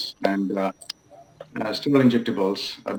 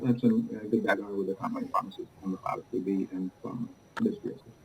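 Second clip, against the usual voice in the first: muffled. Real, not acted. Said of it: "It sounds like it's muffled".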